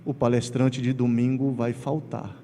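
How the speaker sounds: a lightly voiced deep-voiced professor; hint of a grave older man. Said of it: "a voz grossa fala".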